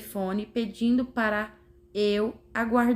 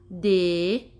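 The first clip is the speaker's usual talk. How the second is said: syllable by syllable; 2 semitones lower, 4 dB louder than usual. Shown as a demonstration. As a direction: count out "Democrata" syllable by syllable, pausing between. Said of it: "Contou as sílabas daquela forma".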